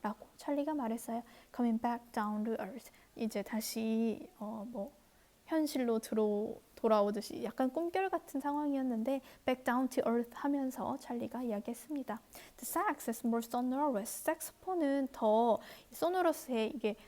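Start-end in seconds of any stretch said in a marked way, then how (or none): 1.5-2.9 very slow, deliberate English read-aloud. Shown as a demonstration. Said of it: "reads the English text slowly". 12.6-14.2 very slow, deliberate English read-aloud. Shown as a demonstration. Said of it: "reads the English text slowly".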